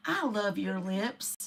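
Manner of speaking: soft and slow, almost murmured; mock repeating. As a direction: drop the voice low and drag it out. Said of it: "he's continually repeating it".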